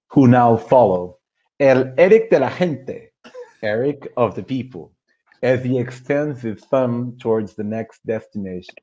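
reading in a put-on American accent; light general American accent. Shown as a demonstration. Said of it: "I'll try to do the most American accent I can".

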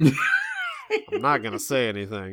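slow sheepish aside, half-laughing; mock aside to camera. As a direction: confess it to an imaginary camera. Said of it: "talking to the camera".

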